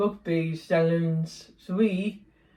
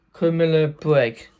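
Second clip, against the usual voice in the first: Criminal Break repeated louder and firmly; 7 dB louder than usual. Real, not acted. Vlogger repeats the game's name for viewers, louder.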